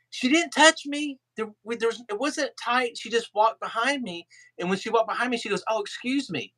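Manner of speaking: high, puzzled Irish impersonation; Irish accent. Retold or imitated. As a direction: retell as a baffled Irishman, pitched high. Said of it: "Ken was in his Irish accent".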